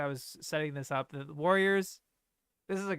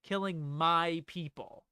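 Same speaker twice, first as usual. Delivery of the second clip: "my" drawn out and leaned on; slow down and claim "my" as yours; stress on my; slower than usual. Shown as a demonstration. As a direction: possessive weight on the word "my". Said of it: "ownership, 'cause it's her valley, it's her people".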